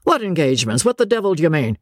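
high, rising anger building to a rant; father raging at his son's choice, high and building; gathering wrath. Acted. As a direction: build from irritation to fury. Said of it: "with gathering wrath".

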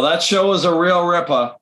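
playful Boston send-off; Boston accent. Acted. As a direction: drop the r in "ripper". More Boston accent play.

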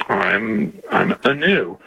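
hesitant, half-hearted answer; unenthusiastic. Real, not acted. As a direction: answer haltingly, without much enthusiasm. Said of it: "you don't sound very enthusiastic".

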